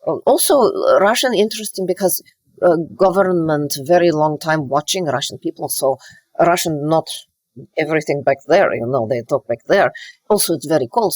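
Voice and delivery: Russian accent from the back of the mouth; Russian-accented English, held back. Shown as a demonstration. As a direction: demonstrate a guarded Russian accent with dropped articles. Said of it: "they tend to talk more in back of the mouth".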